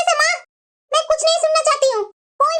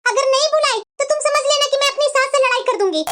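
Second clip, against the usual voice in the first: insistent demand; 2 semitones higher than usual. Acted. Daughter quarrels, insists on being called home.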